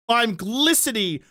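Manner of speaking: GLISTENING stretched out slowly; slow, emphatic repeat of glistening; drawn-out emphasis. Real, not acted. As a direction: draw out the word glistening for comic emphasis.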